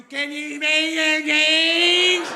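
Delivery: high, loud, stretched-out garbled whine; bad-neighborhood drug voice. Street person begging in a bad neighborhood, mangled drugged wail. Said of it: "when you hear that voice".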